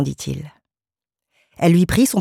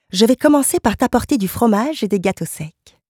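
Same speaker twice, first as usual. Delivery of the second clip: higher, lilting wifely voice; devoted wife, insistent; 6 semitones higher than usual. Acted. Wife insisting on bringing her silent husband a snack, solicitous. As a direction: press the offer helpfully.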